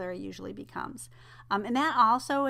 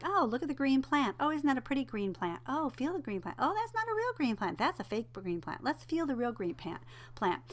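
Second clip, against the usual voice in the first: sing-song parentese, pitched higher; a parent chattering to a toddler about a plant; parent narrating to baby; 5 semitones higher than usual. Shown as a demonstration. Parent showing a baby a plant, sing-song parentese. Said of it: "you're gonna say things like".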